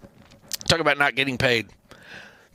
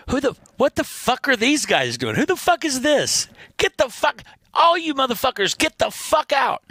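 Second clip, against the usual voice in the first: angry yell; 10 semitones higher than usual. Retold or imitated. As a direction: bellow at the kids to clear out. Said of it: "their guy, the guitar player, goes".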